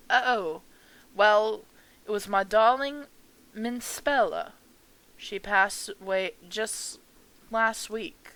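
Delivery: put-on gently proud old woman recalling her daughter; old lady. Mother telling a stranger her daughter died, lightly voiced old lady.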